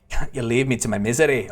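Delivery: put-on amateur Scottish accent for a game character; theatrical Scottish brogue. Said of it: "a Scottish accent".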